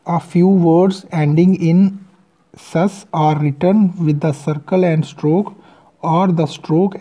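reads the English rule very slowly; slow rule reading. Acted. Teacher reading the rule from the book, very slow. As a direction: dictate the textbook rule word by word.

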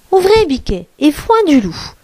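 lightly sung-out call, starting high; a hint of a mother calling; mother goat's call. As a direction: call out the password lightly, pitch falling. Mother goat's password call in story.

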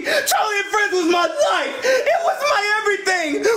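high, melodramatic lament; anguished protest. Acted. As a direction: wail out your devotion. Grieving cancelled show.

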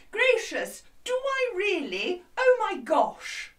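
high, plummy posh lady; hammed-up posh lady exclaiming. Shown as a demonstration. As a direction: talk real posh, drawn out. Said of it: "talk very posh like this".

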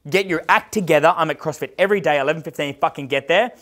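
forceful, sweary ultimatum; mild retold scream. Coach ordering a client to CrossFit, mildly yelled. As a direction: retell yourself having a go at him. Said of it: "I fucking screamed at this guy".

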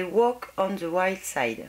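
slow, careful English accent on the polish name. Shown as a demonstration. Vlogger proudly reads the English polish name to viewers in a slow English accent. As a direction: put on your best English accent for Walk on the Wild Side. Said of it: "Vous avez vu cet accent?".

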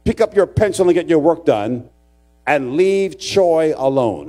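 firm classroom order, slowing at the end; scolding teacher. Retold or imitated. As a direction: act out a teacher telling off a pupil. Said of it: "Teacher turned around and he says".

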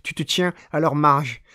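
measured, evenly driven recitation; poem reading. Acted. Reading an experimental poet's text to listeners, measured poem recitation. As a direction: read the poem steadily, phrase by phrase.

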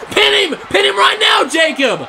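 desperate ringside yell; urgent shout. Real, not acted. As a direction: scream at him to pin now. Commentator urging wrestler to pin.

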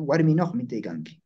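"Guarminoj" closed with a fricative j; "Guarminoj mitecanque" with audible -oj; final J variant. Shown as a demonstration. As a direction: say the j before "mitecanque". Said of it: "Todas esas pronunciaciones".

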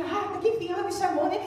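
eager, rising reply; finally called, answer eagerly; excited father. Retold or imitated. Father thrilled his daughter called him, eager. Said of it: "todo empolgado assim".

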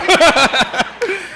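high, loud and laughing. Real, not acted. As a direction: laugh it out, hands up. Laughing at shocked congregation.

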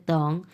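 তং with an "ong" ending; correct pronunciation demo. Shown as a demonstration. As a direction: say তং with "o", never "e". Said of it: "তেং উচ্চারণ হবে না". (সঠিক উচ্চারণে তং)

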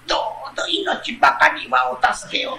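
a fox begging for its life, softly, with a tremble of a laugh; pitiful fox voice. Acted. The fox begs the man not to kill it, pitiful and soft. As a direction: plead quietly, like a trapped fox. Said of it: "狐が下から哀れな声で".

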